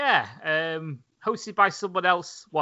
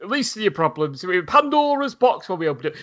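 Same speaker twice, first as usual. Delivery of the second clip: cheery salesman; 4 semitones higher than usual. Retold or imitated. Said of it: "this cheery, like, sort of demeanour".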